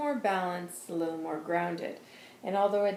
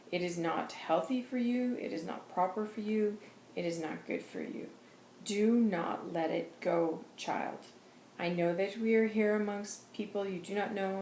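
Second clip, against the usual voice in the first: solemn channeled voice. Acted. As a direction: speak as a gentle but firm guide. Channels Jesus's message.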